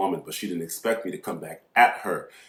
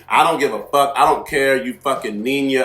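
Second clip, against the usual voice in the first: tag; 4 semitones higher, 6 dB louder than usual. Retold or imitated. Retold insults at register.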